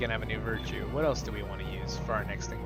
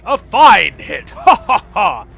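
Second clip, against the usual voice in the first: hearty hero voice; 3 semitones higher, 13 dB louder, slower than usual. Acted. Voicing game character's cheer.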